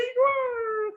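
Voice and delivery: indignant outburst at an unreturned apology; exasperated wah. Retold or imitated. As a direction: throw it up high like you can't believe it. Reacting to the other not apologising.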